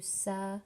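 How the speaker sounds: "Sa-man-tha" said in three separate beats; split into syllables. Shown as a demonstration. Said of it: "you would break it down to".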